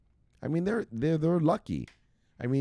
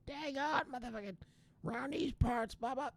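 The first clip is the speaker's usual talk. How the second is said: a mock redneck twang, pitched way up; 10 dB quieter than usual. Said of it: "When I do that voice".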